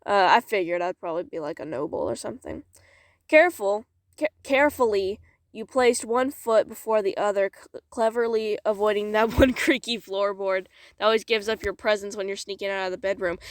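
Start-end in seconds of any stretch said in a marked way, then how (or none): 3.3-13.4 measured, expressive storytelling; story narration. Acted. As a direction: read it aloud like a dramatic tale. Reads story aloud.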